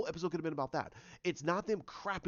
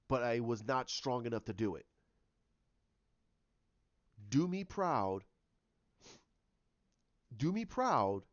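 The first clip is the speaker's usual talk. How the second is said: note read aloud; 5 semitones lower than usual. Acted.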